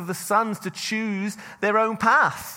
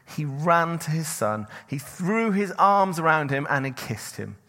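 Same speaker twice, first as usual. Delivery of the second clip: measured, steady reading of the Bible passage; a preacher reading scripture to the church; 2 semitones lower than usual. Acted. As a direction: read the parable aloud to the congregation, unhurried. Reads the parable aloud.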